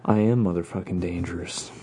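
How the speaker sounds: understated seductive growl-free purr; lightly put-on sultry boast; sex voice. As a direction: tease it out with mock seduction. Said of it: "I did the sex voice for that".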